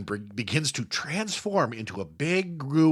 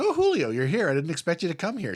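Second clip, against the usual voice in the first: lovestruck, smitten, sweet, gushing tone; 4 semitones higher than usual. Retelling a movie scene where a character greets her crush: imitating a smitten character. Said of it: "super into him".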